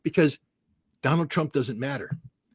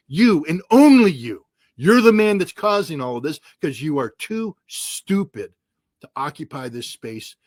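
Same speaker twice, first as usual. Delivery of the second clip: angry; 3 dB louder than usual. Real, not acted. Furious rant aimed at Trump.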